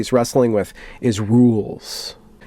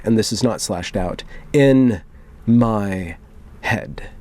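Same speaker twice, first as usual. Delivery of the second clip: dramatic reading. Acted. Reading a moderator's manifesto to viewers, solemn and dramatic. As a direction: read it like a grave confession.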